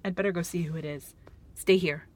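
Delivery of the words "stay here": whispered warning. Acted. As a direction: hush it to him. Quiet warning before opening door.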